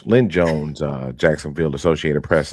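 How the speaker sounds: slow, stiff press reporter; lightly voiced stiff reporter; formal reporter voice. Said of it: "'Cause they had to be like".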